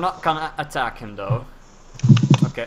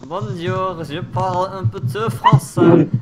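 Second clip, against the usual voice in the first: mock French; 3 semitones higher, 5 dB louder than usual. Shown as a demonstration. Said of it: "I can speak a little bit French".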